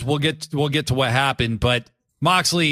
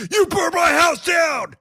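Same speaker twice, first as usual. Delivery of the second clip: acted Swerve retort. Swerve shouting back at Hangman about the burned house. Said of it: "And Swerve goes".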